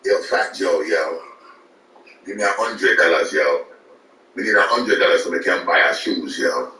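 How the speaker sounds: light imitation of a Jamaican hustler, every phrase ending in yo; mock Jamaican accent asking for money; lightly voiced Jamaican accent with a tacked-on yo. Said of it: "a Jamaican nigga be like".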